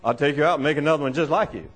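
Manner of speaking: low, quick quoted threat; lightly voiced impression of a comedian dad; Bill Cosby. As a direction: lay down the law, low and fast. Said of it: "Like Bill Cosby".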